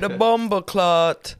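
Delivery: "bumba clot" drawn out slowly; Jamaican-style "bumba clot", stretched; Jamaican pronunciation. Shown as a demonstration. Demonstrates the slang properly.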